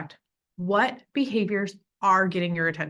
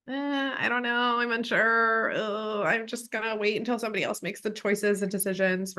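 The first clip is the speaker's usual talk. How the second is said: hesitant, unsure mumble; passive. Shown as a demonstration. Passive person shrugging off a choice, unsure. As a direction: shrug it off, no decision. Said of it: "raised to be passive".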